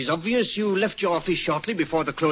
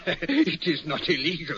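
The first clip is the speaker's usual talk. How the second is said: laughing; slower than usual. Acted. Laughs off client's complaint.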